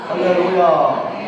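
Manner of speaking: 할렐루야 slow and loud, falling; slow loud hallelujah call. Real, not acted. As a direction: draw out 할렐루야 to wake the room. Preacher calls for response.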